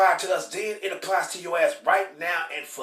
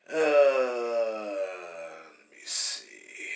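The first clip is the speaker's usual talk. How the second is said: slow, breathy mutter while searching; whisper to self; 10 semitones lower, much slower than usual. Real, not acted. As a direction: murmur to yourself while looking.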